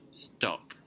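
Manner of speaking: a quick whispered stop. Shown as a demonstration. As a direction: breathe the word out, no voice. Advice to deaf dater, whispered.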